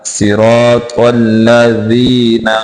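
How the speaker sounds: slow लज़ीना, no buzzing z; correct dhal. Shown as a demonstration. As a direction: recite लज़ीना slowly, tongue-tip dh and long "ee". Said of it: "जी को जी नहीं पढ़ना".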